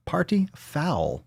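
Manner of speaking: slow whisper of "Party foul". Shown as a demonstration. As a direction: hiss it out sadly. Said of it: "repeated plain".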